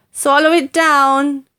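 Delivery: put-on urging boy. George urging Grandma.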